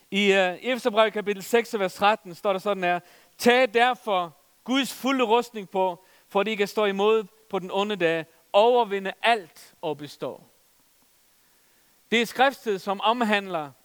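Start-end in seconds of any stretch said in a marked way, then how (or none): 3.4-10.4 scripture reading. Acted.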